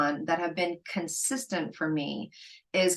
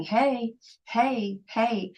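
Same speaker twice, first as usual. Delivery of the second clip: mock nagging call; 5 semitones higher, much slower than usual. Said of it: "calling you during your work hours going".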